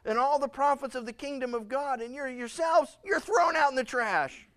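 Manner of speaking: rising, ending in a loud shout; the rejected crying out, ending loud; building outcry. Retold or imitated. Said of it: "you go".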